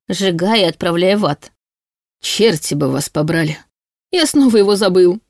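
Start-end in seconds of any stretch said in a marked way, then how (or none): 2.2-5.2 mild angry wail; understated cry of frustration; frustrated yell. A narrator's reading. Demon has forgotten his name, yelling in frustration. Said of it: "завопил Кенна".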